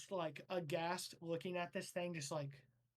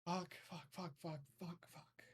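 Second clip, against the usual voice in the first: softer and softer, last ones whispered; fading swearing; 9 dB quieter than usual. Acted. Director despairing over the new recruit, swearing into a whisper. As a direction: mutter curses down to a whisper. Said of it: "she's like".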